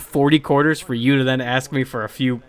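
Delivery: indignant telling-off. Retold or imitated. Telling off coworker over gummies.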